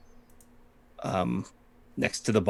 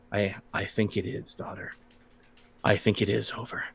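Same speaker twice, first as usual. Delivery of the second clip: grieving father; 2 semitones lower, 7 dB quieter, faster than usual. Acted. Grieving father answers his daughter.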